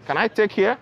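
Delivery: muffled behind surgical mask; through a face mask. Real, not acted. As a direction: mask over mouth and nose. Seen 0: surgical mask covers mouth and nose throughout labelled words.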